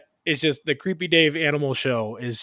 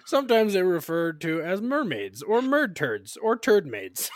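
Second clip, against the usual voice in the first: imitating Creepy Dave; 4 semitones higher than usual. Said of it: "this character he created called Creepy Dave".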